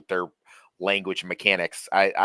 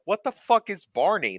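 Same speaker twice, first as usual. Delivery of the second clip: baffled retort; 10 semitones higher than usual. Retold or imitated. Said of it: "I'm like".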